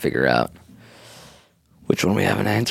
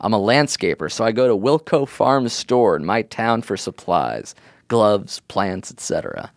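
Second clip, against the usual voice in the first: landscaper voice; 2 semitones higher than usual. Pretend. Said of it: "Now you're doing a voice of somebody you assume is a landscaper".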